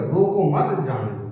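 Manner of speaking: slow रोको मत, then जाने दो; group रोको with मत, जाने दो apart; break after मत. Shown as a demonstration. Teacher reading the third sentence, break after मत. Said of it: "मतलब उसको रोको नहीं".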